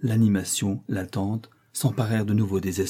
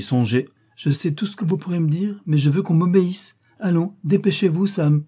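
much higher, louder insistence; imperious impatience; 8 semitones higher, 4 dB louder than usual. A narrator's reading. Daughter overruling mother and hurrying the servant, imperious impatience. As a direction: cut off objections and demand obedience.

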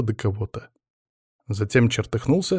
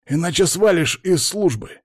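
high-pitched stern warning; barked threat; 7 semitones higher than usual. A narrator's reading. Boss threatens Pavel with dismissal, barking. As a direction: threaten him sharply, short of shouting. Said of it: "гаркнул на него Палыч".

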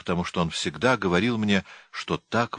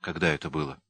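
restrained, slightly lowered question; trying to stay calm; 3 semitones lower, 3 dB quieter, faster than usual. A narrator's reading. Narrator questions Henry, trying to keep calm. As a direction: ask it carefully, keeping calm. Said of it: "стараясь сохранить спокойствие".

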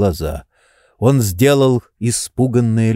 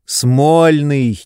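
quick impatient whisper; 4 semitones higher, 3 dB louder than usual. A narrator's reading. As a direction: hiss the name impatiently under the breath. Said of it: "нетерпеливо сказал Обломов". (нетерпеливым шёпотом)

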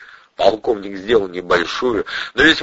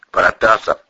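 confiding tone. Acted. Colonel to suspect, confiding. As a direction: lean in like a friend. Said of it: "Тон стал доверительным".

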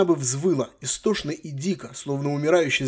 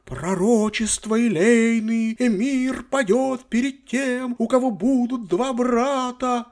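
slow, higher, hammed-up spooky tone; mock sepulchral voice; 9 semitones higher, slower than usual. Granddaughter teasing her grandfather with a silly doom voice. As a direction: play at being a doom prophet, clowning. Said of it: "дурашливо загробным голосом".

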